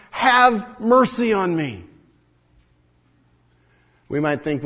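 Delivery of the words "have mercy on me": pleading request. A narrator's reading. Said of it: "the last part of his request".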